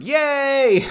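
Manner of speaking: high happy yay; little cheer. Real, not acted. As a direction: celebrate out loud. Fake drinking break cheer.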